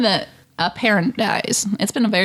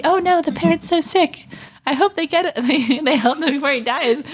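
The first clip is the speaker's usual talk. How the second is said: higher-pitched, lightly voiced worried kid; naive small child; 5 semitones higher than usual. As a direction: play your innocent child self, mildly worried. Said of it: "a small child who was unable".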